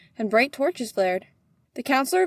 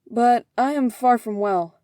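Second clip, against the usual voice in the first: slow, ailing plea; unwell plea; 5 dB louder, slower than usual. Acted. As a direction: plead as a sick man. Asks landlady, feeling ill.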